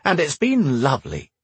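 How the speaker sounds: dry sarcastic reply; deadpan sarcasm. A narrator's reading. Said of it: "replied Matthew sarcastically".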